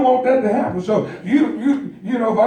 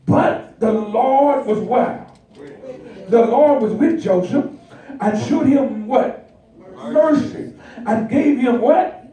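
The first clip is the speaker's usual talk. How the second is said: preaching call and response. Acted. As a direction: draw the answer out of the crowd.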